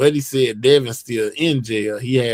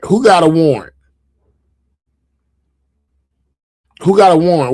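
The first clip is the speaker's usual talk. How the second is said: alarmed; 4 semitones higher, 7 dB louder, faster than usual. Real, not acted. Alarmed at warrant news.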